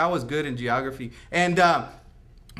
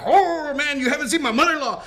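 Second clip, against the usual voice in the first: mock scoffing; 9 semitones higher, 6 dB louder than usual. Comeback about mother-in-law.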